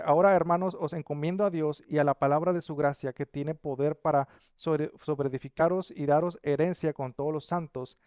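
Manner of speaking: solemn Bible reading; scripture reading. Acted. Pastor reads Paul's farewell blessing, solemn. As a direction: read the blessing to the church.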